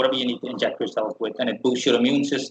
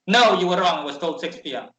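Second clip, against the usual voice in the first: rude; 5 semitones higher than usual. Retold or imitated. Receptionist brushing off the traveler, rude and curt. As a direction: put the traveler in their place. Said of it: "But in a really rude way".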